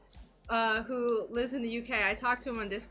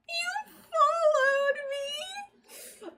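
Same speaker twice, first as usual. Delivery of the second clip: excited; 4 dB louder, much slower than usual. Real, not acted. Thrilled that a viewer followed.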